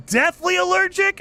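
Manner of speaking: very high-pitched, incredulous echo; startled, pitch shooting way up; shocked disbelief. Real, not acted. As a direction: repeat "deathly allergic" as a stunned question. Reacts to the message just read.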